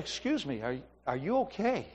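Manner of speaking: soft, hushed concern; gentle concern. Retold or imitated. Man asks a shaking girl in line, softly concerned. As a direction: ease in quietly so you don't startle her. Gently asking crying stranger.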